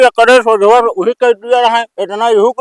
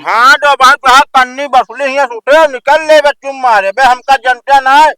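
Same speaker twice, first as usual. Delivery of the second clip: loud, higher angry rebuke; angry scolding; 3 semitones higher, 4 dB louder than usual. Acted. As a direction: tell him off loudly. Pradhan scolds builder angrily.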